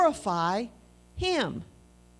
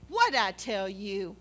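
put-on talking down to a kid; 2 semitones lower, slower than usual. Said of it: "isn't that how you talk to a little kid".

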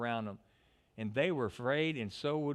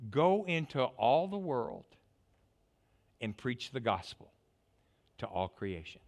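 solemn commission. Acted. Preacher quoting Jesus' command.

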